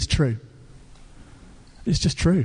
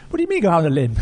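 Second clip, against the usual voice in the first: incredulous query; faster than usual. Retold or imitated. Pastor interrupts his own prayer to the little voice, incredulous query. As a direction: break off praying to challenge the inner voice. Pastor questions voice again, higher.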